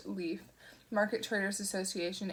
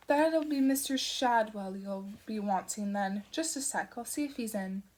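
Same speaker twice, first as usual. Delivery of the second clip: Madam Tracy. Acted.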